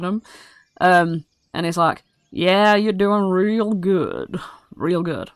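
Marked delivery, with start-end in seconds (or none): 2.3-5.3 goblin boss. Acted. Toffee-head goblin overseer.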